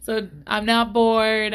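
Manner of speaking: talking through a yawn. Real, not acted. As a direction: yawn while speaking. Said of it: "I keep yawning".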